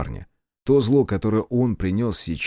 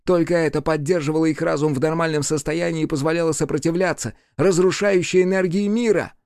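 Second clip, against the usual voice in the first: raised, weary demon voice; lightly voiced demon; 8 semitones higher than usual. A narrator's reading. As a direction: recall the endless waiting. Demon recalling despair.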